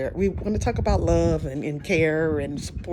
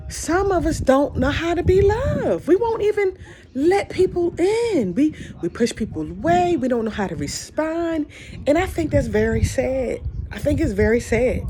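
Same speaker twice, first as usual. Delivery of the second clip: tearful; 8 semitones higher than usual. Real, not acted. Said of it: "I'm starting to cry again".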